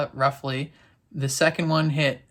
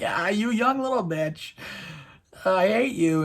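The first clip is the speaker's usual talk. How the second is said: higher, teasing put-on voice; mock Avasarala banter; 6 semitones higher than usual. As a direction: toss the insult back playfully. Avasarala banter back at Gao.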